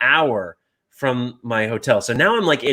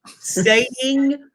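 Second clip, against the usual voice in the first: very slow, high, word by word; exaggerated slow enunciation; 11 semitones higher than usual. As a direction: talk as if to someone who understands nothing. Mimicking talk to a non-English speaker.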